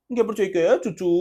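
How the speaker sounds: mock baby-talk scolding, like soothing a toddler; coaxing a small child. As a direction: coo it as if chiding a little kid. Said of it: "చిన్నపిల్లకి చెప్పినట్టు బుజ్జగించి". (చిన్నపిల్లని బుజ్జగిస్తూ చెప్పినట్టు వెక్కిరింపుగా)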